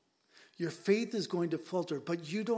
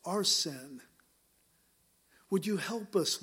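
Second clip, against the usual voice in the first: fervent prayer. Acted. Pastor praying over the congregation and online viewers, fervent prayer. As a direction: pray over the room with conviction.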